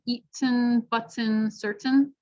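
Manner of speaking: "eaten" "button" "certain" with released T sounds; careful full T; regular T. Shown as a demonstration. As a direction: say every T crisply. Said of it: "if you use the regular T".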